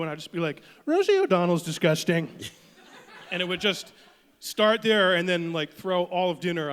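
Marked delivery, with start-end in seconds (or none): 0.9-2.3 a bit louder mock Trump insult; Trump impression. Son at dinner tells mom in Trump voice. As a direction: blurt it like Trump. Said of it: "talk like Trump".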